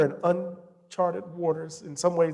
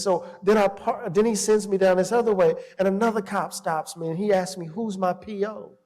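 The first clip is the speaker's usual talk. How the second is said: higher-pitched retelling of an upset son; tearful son; 4 semitones higher than usual. Retold or imitated. Son telling dad about the cops, mildly tearful. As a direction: lightly voice a son close to tears. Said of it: "tears are rolling down his eyes".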